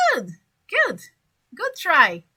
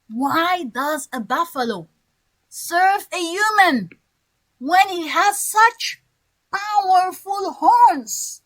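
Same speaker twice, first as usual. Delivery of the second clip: slow questioning. Shown as a demonstration. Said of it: "the first question of the wolf".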